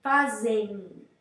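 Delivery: "Fazem" ending in a nasal E plus I glide; teacher's repeat of the demo word. Shown as a demonstration. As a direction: join E and I in "Fazem" through the nose. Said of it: "aí junto o E com I".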